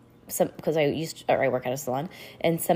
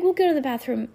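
higher-pitched, coaxing plea; pleading; 7 semitones higher, faster than usual. A narrator's reading. Girl offering help to her crying friend, pleading. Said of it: "she begged".

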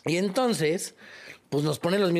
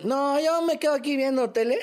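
mock lazy voice; 11 semitones higher than usual. Mocking lazy people's line.

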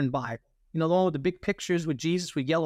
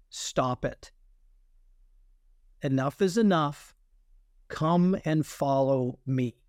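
low, slow retold command; firm command; 3 semitones lower, slower than usual. God calling the speaker in the confessional, low firm command. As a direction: lay it down slowly and firmly. Retelling God's call to the speaker.

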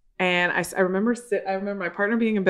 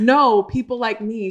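slow laughing retort; 3 semitones higher, 4 dB louder, slower than usual. Retold or imitated. Retelling the friend's reply.

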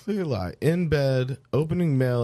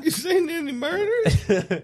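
hick voice; slower than usual. Acted. Playing a hick stranger.

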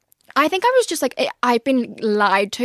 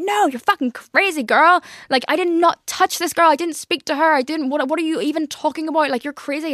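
higher-pitched imitation of an outraged boyfriend; indignant denial; 5 semitones higher than usual. Boyfriend denying cheating to his girlfriend, imitated indignant protest. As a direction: retell his protest in a raised, insistent voice.

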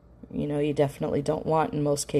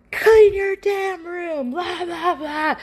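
much higher, louder mock scream, slow; screaming parent; 6 dB louder, slower than usual. Parent screaming at a kid about the room, mock shriek. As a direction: shriek it like a scary monster parent. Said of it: "like a big scary monster to them while you're screaming".

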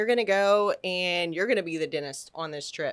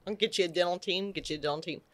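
quiet; 4 semitones lower, 7 dB quieter, much faster than usual. Retold or imitated. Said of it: "I'm like".

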